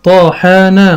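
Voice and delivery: طحنا sounded out carefully; careful sounding out. Shown as a demonstration. Teacher sounding out for a child, carefully. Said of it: "مثال كمان".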